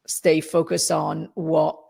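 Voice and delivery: halting, holding back tears; real emotion welling up, with long pauses; about to tear up. Real, not acted. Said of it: "I'm gonna tear up".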